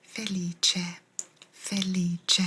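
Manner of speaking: "felice" said fe-LEE-cheh; pronunciation of felice. Shown as a demonstration. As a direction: say "felice" with a ch sound for the c. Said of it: "You'd pronounce that felice".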